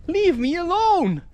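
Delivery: high, exasperated mock plea; acted high-voiced annoyance; exasperated retort. Answering back the annoying voice.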